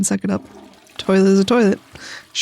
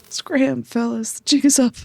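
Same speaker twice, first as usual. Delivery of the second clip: higher, louder tough-guy bust; gangster cop; 4 semitones higher, 3 dB louder than usual. Acted. Guest busting the bugs in the toilet, tough-guy.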